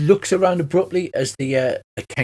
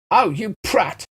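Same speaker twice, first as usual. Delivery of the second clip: lightly voiced halfling, higher and annoyed; a hint of a cross little halfling; 7 semitones higher, much slower than usual. Kenku insults the party in a halfling's voice. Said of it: "He says in a halfling voice".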